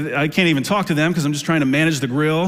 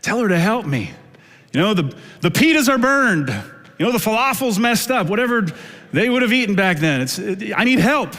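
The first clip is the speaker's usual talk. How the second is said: higher, whiny complaint; Martha complaining; 6 semitones higher than usual. Retold or imitated. Martha complains to Jesus about her sister, whiny and higher. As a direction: plead like a put-upon sister. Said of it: "she came to him and asked".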